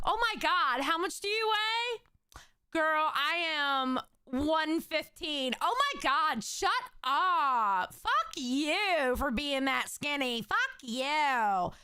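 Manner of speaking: lightly put-on Valley Girl squeal of envy; mock Valley Girl. Streamer parodying girls comparing weights, mock Valley Girl. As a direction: imitate girls swapping weights, swooping and drawn out. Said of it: "He sounds like a Valley Girl".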